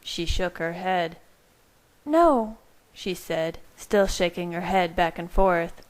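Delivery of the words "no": higher voiced, firm pleading; Bella. A narrator's reading. Bella tells Carlisle she won't give up the baby, firmly. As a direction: Bella refusing, higher and determined.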